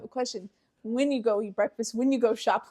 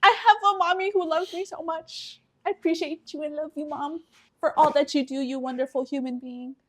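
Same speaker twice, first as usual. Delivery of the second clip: mock gushing affection; 3 semitones higher than usual. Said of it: "call her afterwards and be like".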